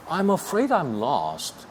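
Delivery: very slow, every word spaced; teacher modelling slowly; slow demo. Shown as a demonstration. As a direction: spell it out for learners. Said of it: "이런 식으로".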